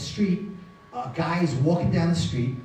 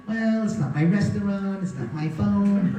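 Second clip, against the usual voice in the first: unhelpful waiter; 3 semitones higher than usual. Retold or imitated. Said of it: "The waiter looks at me and goes".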